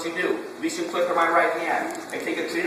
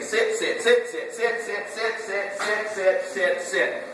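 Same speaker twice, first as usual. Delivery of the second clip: higher, mock-nagging string of sits to the puppy; nagging repeated sit; 4 semitones higher, slower than usual. Shown as a demonstration. Trainer mimicking owners who nag the puppy with sit, sit, sit. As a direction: show the class the wrong way, repeating the cue over and over, higher and nagging. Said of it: "you guys are gonna be saying".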